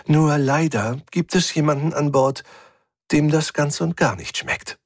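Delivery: a hint of Efi savouring the calm; voicing Efi. Efi teases Rick about finally being able to rest, lightly voiced and amused.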